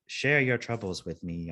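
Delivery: slow, measured confessional voice; slow, lightly acted robo-confessor; robot priest recording. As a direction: lightly imitate an automated priest. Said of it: "this recording comes on".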